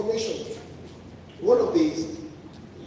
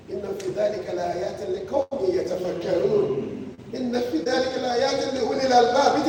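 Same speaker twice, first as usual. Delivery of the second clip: Quranic recitation; much faster than usual. Acted. Reciting Quran verse in sermon.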